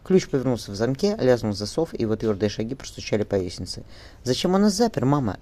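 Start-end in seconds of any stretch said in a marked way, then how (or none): 4.2-5.4 frightened. A narrator's reading. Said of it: "испуганно спросила Энни".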